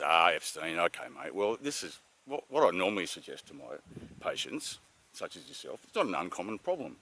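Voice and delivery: calm a worried patient, just a touch; reassuring doctor. Retold or imitated. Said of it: "reassured him".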